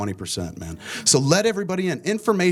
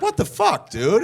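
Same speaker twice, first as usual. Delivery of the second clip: retold disbelief; 9 semitones higher, slower than usual. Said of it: "I was like".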